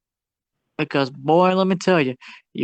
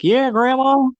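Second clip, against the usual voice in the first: put-on eager kids; 8 semitones higher, slower than usual. Kids answer grandma.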